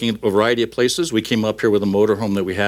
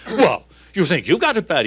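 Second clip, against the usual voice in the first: Irish worker; 6 semitones higher than usual. Acted. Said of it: "the Irishman, of course, chimes in".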